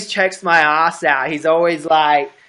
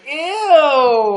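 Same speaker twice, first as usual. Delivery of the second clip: a high, grossed-out "ew"; playful fake revulsion; mock disgust; 9 semitones higher than usual. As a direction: pull a face and squeal ew at the hairy abs. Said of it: "You're gonna be like".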